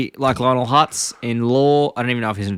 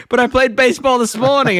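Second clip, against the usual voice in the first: high-pitched boy impression; Bart; 10 semitones higher, 3 dB louder than usual. Boy objects to his parents, high mock-kid voice.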